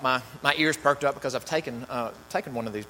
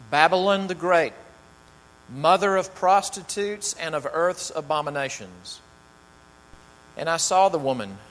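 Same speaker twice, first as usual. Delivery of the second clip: measured, dramatic Bible reading; scripture reading. Acted. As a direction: read the passage to the congregation with weight. Reads scripture aloud to congregation.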